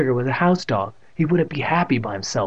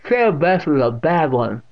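put-on loud, higher deaf old woman; unsoftened stern aunt; 4 semitones higher, 5 dB louder than usual. A narrator's reading. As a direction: state it sternly and loudly. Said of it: "not softening her expression".

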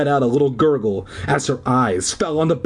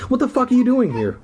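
surprised; 12 semitones higher, faster than usual. Real, not acted. Reader exclaiming at pet.

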